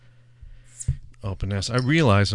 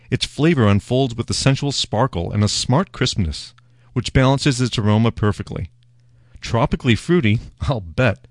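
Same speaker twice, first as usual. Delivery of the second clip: mock marketing read. Shown as a demonstration. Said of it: "so marketing speak".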